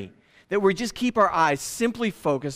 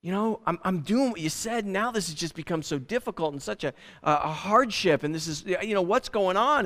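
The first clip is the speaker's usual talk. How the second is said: mock freaking out; 2 semitones higher than usual. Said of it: "I start freaking out like".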